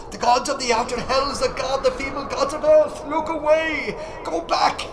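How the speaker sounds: high, desperate cries of horror; terrified screaming. A narrator's reading. Barzai screaming in horror at the other gods. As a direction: scream as if the sky pulls you up.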